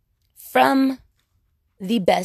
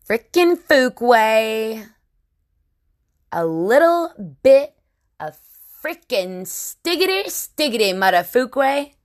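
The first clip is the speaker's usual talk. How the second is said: rising, louder hype shout; excited outburst; 2 semitones higher, 4 dB louder than usual. Acted. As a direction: shout it with wild glee.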